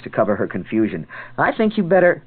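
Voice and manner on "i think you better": sharp warning. Acted. She warns him off.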